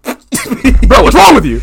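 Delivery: high, loud disbelief; acted-out loud, high-pitched challenge; mock alarmed outburst. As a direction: blurt it out, imitating someone alarmed. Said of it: "And then he's like".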